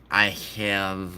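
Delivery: quick token Russian accent; throwaway mock Russian accent. Shown as a demonstration. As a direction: lightly put on a Russian accent. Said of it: "Russian would be like".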